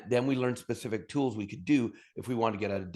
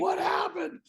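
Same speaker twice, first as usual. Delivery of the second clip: high, squeaky mock confusion; mock bewildered; slower than usual. Mimicking oil workers baffled after the bust, high and puzzled. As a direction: play the clueless spender caught short.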